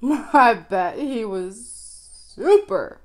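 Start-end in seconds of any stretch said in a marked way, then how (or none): 2.4-3.0 super squeaked high and loud; super pitched way up. Shown as a demonstration. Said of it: "super pissed".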